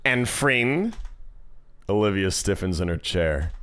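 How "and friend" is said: bad Australian accent; Mia. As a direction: put on a mock Aussie voice. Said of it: "the shitty Australian accent".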